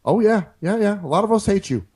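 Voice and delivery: lightly voiced mock president on a call; calm, halting politician's phone manner, barely shifted; Obama prank call. Pretend Obama calling a terrorist on the phone, lightly voiced. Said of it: "it's Barack Obama from America".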